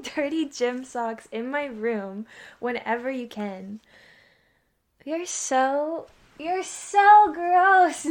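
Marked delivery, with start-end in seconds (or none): 5.1-8.1 loud, drawn-out "so gross"; playful disgust. Real, not acted. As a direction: stretch it out, grossed out but laughing. Teasing disgust at brother's socks.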